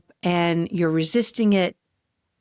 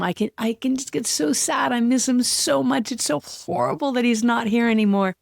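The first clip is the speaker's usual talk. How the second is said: real sadness rising; 3 semitones higher than usual. Real, not acted. Missing her late cat, close to tears and sad. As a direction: voice lifting and thinning as the grief comes up. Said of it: "even now I can feel it's coming up".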